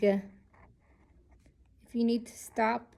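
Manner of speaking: slow hushed aside; whispered aside. Real, not acted. Teacher whispering an aside to viewers, slowly. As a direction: drop to a whisper for the side note.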